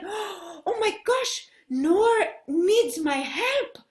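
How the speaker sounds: slow, dramatic dismay; mild alarm. Acted. Hannah sees Noor crying, slow dramatic concern. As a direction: gasp it out slowly, a touch worried.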